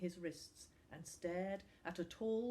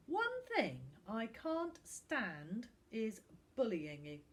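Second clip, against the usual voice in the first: stern; 4 semitones higher, 3 dB louder, slower than usual. Acted. Footballer scolds the bullies.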